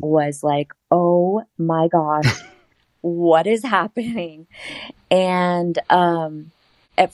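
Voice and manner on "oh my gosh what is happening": stunned disbelief. Retold or imitated. Reenacts seeing own sleeping body.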